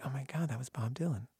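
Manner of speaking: soft unvoiced whisper of amazement; hushed oh-my-God whisper; whispered realization. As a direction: breathe it out in awe.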